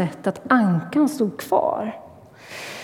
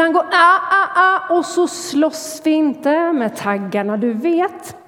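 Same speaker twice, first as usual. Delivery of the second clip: mother's warning; 6 semitones higher than usual. Acted. Mother warns son again.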